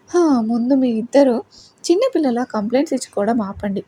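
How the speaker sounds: a mother's light exasperation; irritated. Acted. Mother telling the squabbling pair to stop, mildly irritated. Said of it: "అని చిరాకు పడుతున్నట్లుగా అంటారు".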